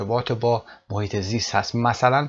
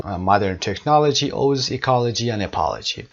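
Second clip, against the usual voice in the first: 1 slow model reading; much slower than usual. Shown as a demonstration. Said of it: "teacher rereads quote slowly".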